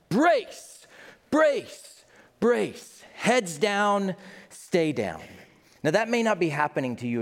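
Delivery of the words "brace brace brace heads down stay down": urgent brace call. Retold or imitated. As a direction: shout the warning as the plane goes down. Emergency command in prayer.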